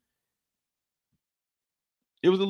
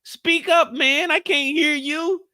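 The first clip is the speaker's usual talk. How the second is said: mock shout; 11 semitones higher, slower than usual. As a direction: shout it like he can't hear. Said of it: "I was like".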